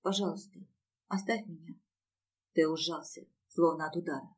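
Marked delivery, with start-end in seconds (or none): 0.0-1.8 softer, indifferent murmur; softly, drained of feeling; quiet mumble. A narrator's reading. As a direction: murmur it out of sheer apathy. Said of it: "тихо пробормотала".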